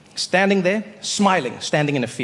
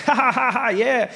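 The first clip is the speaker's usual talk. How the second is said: imitated loud laugh; 7 semitones higher than usual. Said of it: "laughed, was like".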